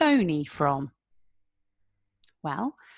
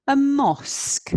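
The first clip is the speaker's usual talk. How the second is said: "A mosque" said higher and louder, with a falling tune; clear and emphatic; 6 semitones higher, 5 dB louder than usual. Shown as a demonstration. Teacher models the new word loudly for the class.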